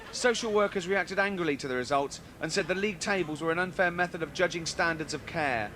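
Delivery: straight-faced news anchor read. Acted. Comic reading the news to the studio, formal anchor voice. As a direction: read the headline like a newsreader.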